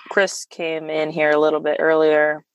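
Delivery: boxy closet sound, small room; recording in a closet. Real, not acted. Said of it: "I'm recording in the closet".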